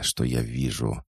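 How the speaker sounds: ordinary delivery, nothing marked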